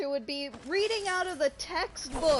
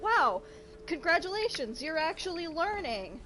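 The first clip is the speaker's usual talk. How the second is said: encouraging teacher; 4 semitones higher than usual. Retold or imitated. Voices an ideal teacher's praise.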